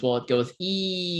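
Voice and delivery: E said with lips rounded into U; lips pursed. Shown as a demonstration. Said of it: "If you round your lips while pronouncing an E".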